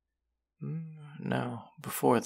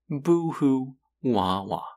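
mock crying; 6 semitones higher, 4 dB louder, slower than usual. Mocking listener's heartbreak.

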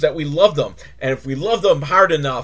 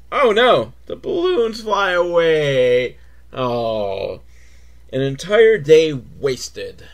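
mock dramatic narration; 3 dB louder, slower than usual.

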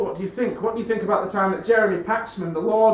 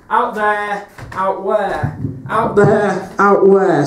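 building shout; 7 dB louder, much slower than usual. Acted. Building rant call and answer.

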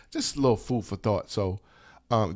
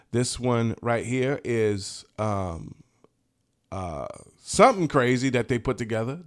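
usual speaking voice

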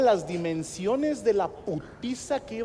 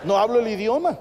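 laughing; 3 semitones higher, 4 dB louder than usual. Retold or imitated. Fake worry about Monterrey.

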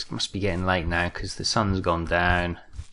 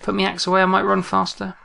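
high, loud, urgent self-coaching; panicked fleeing chatter; 11 semitones higher, 6 dB louder than usual. Real, not acted. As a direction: chant it while running for your life. Fleeing gunfire, zigzagging.

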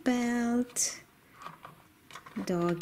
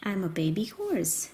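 lower horse voice; 5 semitones lower than usual. Acted. Toy horse introduces itself.

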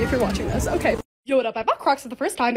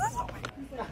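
delighted squeal; 17 dB quieter, much slower than usual. Real, not acted. Finding birthday cake kisses.

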